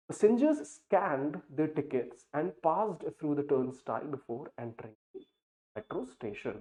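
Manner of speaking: very slow, deliberate reading of an example sentence. Acted. Teacher reads the example sentence to students, slow dictation pace. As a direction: read it out word by word for learners.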